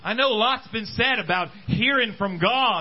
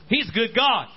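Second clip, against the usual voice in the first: "He's a good God" declared out with weight on "God"; proclaiming. Shown as a demonstration. Preacher declaring God's goodness to the congregation, bold. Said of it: "I'll stand up and say it".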